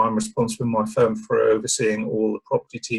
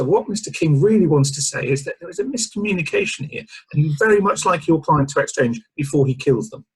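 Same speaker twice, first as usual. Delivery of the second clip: diplomatic spokesman voice; smooth, polite PR spin; Michael Cole impression; 5 semitones higher than usual. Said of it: "do the Michael Cole and say".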